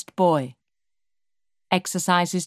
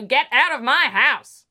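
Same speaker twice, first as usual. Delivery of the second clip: slower, loud, rising on my; yelling mother; 8 semitones higher, 4 dB louder, slower than usual. Acted. Drunk mother's last scream at Dave: slow loud yell. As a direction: drag out the final order. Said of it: "She then yells at him".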